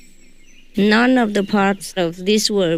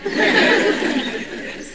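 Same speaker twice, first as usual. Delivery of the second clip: laugh; 12 semitones higher than usual. Real, not acted. Laughing at her Chinese English.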